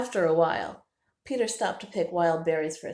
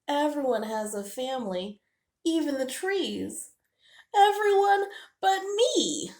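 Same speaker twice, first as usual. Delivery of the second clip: sad; 8 semitones higher, 4 dB louder than usual. Acted. Squirrel sad he has no family.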